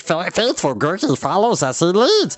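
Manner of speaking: eager shaggy creature, jabbering; a loyal little beast chattering hopefully; odd creature voice, eager; Gurgi voice. A narrator's reading. Gurgi's voice held.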